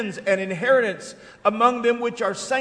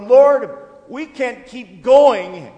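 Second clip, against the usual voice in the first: desperate prayer; 10 dB louder, much slower than usual. Acted. Pastor voicing a desperate prayer.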